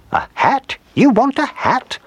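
high-pitched, astonished question; surprised guess. A narrator's reading. Old woman guesses what her dog wants, high and surprised. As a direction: ask it high, in wide-eyed astonishment.

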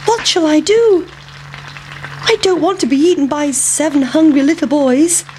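high, anxious little voice; worried pancake. Acted. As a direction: fret in a tiny high voice. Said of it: "thought the pancake".

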